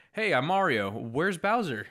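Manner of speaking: lightly voiced Mario, plain movie-star read; a hint of a bland Mario; flat Pratt-style Mario. Co-host mocks a flat Pratt Mario, mild impression. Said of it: "if he's just like".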